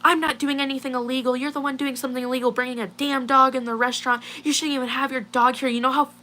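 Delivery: high-pitched mock rant, not really shouting; imitated angry screaming. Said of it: "screaming in my face".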